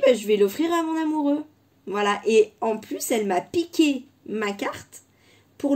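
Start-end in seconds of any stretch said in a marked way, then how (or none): 0.1-1.4 put-on higher, louder little-girl voice for her daughter; daughter's voice. A mother telling viewers about her daughter, quoting her in a higher, louder little-girl voice. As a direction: play her six-year-old announcing it brightly. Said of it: "et elle m'a dit".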